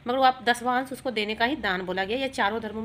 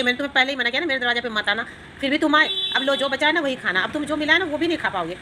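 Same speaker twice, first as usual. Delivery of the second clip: put-on fast, louder scolding old woman; irritated scolding; 3 semitones higher, 5 dB louder than usual. Old woman throwing dust in the sadhu's bowl, fast and louder. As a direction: rattle it off, fed up and spiteful. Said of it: "गुस्सा से झुंझलाते हुए बोल के".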